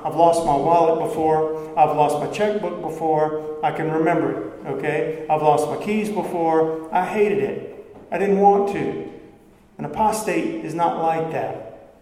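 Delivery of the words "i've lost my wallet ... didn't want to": loudly acted everyday grumble about losing things; believer's mock complaint. Pastor voicing a believer annoyed at losing things, mock complaint. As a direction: play a believer fretting over lost wallet and keys. Voices someone who lost things.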